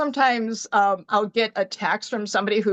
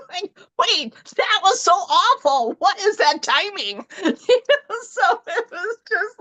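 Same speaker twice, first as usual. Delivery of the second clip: higher, laughing through the words; laughing disbelief; 8 semitones higher than usual. Real, not acted. Telling the team about her boss's retirement, laughing. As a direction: laugh at the awful timing.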